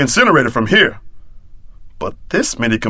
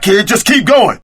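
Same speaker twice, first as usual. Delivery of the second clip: shout; 9 semitones higher than usual. Acted. Combat bark to kid.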